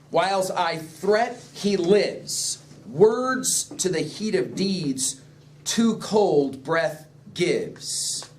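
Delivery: slow, weighty recitation of the verse; slow dramatic verse reading. Shown as a demonstration. Teacher reading the soliloquy to the class, slow and weighty. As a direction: draw out each line of the soliloquy.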